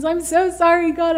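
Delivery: mildly acted cry of apology to God; crying out repentance. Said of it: "I'm just crying out".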